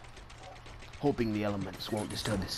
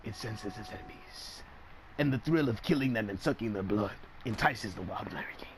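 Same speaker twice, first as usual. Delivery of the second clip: whispering; 13 semitones lower, 8 dB quieter than usual. Acted. Hushed documentary whisper.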